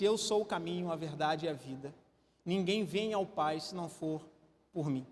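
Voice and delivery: low, soft Jesus quote; hushed reading of the verse; soft reverent quote. Acted. Quoting Jesus softly.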